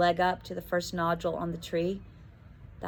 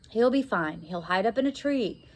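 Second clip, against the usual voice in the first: uncertain; 2 semitones higher than usual. Acted. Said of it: "Stella called uncertainly".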